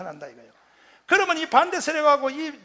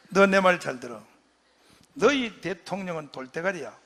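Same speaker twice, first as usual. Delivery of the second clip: scolding rebuke; 5 semitones lower than usual. Retold or imitated. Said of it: "하고 호통을 쳐요".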